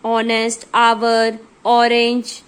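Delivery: ऑनेस्ट, आवर, ऑरेंज each said clearly with an open O sound at the start; teacher saying ऑनेस्ट, आवर and ऑरेंज to show the silent H; vowel-sound examples. Shown as a demonstration. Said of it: "ऑनेस्ट में ओ की sound निकल रही है".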